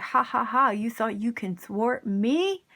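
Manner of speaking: lightly voiced gloating villain, slowing on the taunt; mock villain laugh into a drawn-out, disbelieving question; evil villain. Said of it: "that evil villain laugh".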